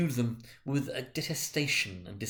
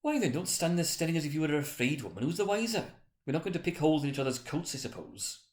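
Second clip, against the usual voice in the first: brazen woman; 6 semitones higher than usual. Acted. Woman scolding the others.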